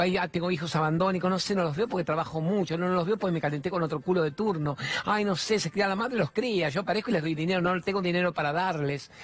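mock the lazy dad's excuses; mocking whiny parent.

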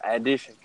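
"addition" opening on a clear AD, like "add"; mispronounced "addition". Real, not acted. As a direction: say "addition" with a full short a up front. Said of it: "Sorry, I said it that way".

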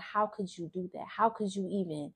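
soft, self-blaming inner voice; retold self-reproach. Speaker beating herself up about her past, quiet self-reproach. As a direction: quietly replay beating yourself up, trailing to very soft. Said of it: "I beat myself up and be like".

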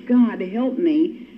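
drawn-out, pleading God, help me; slow cry for help. Retold or imitated. Recovering alcoholic at a meeting, slowly pleading to God. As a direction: stretch it out like a desperate prayer. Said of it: "once we cry".

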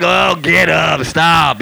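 slow, drawn-out scolding; acted-out weary command; God's exasperated rebuke. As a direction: tell off a crybaby, fed up. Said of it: "God's like".

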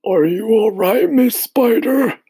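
high, slow, loud call down; shouted. A narrator's reading. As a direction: call down over the edge. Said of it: "shouted the old green grasshopper".

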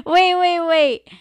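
high, loud stunned wait; startled wait. Real, not acted. Host stunned by a chat comment, loud and high. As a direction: stop everything, shocked.

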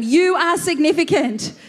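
bright, eager declaration to a neighbour; cheering a neighbour on with enthusiasm; enthusiastic. Shown as a demonstration. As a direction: say it with real enthusiasm. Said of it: "with enthusiasm".

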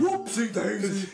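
playful character voice. Acted. Playful bit continuing the voice.

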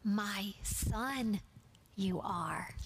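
gentle, loving father to his son; a hint of a loving father; with love. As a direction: say it tenderly, as a father's blessing. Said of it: "God is saying with love".

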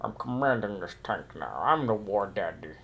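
low gravelly mock commander; lightly voiced tough soldier; low gruff soldier. Acting Diesel as tank commander.

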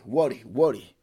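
usual speaking voice

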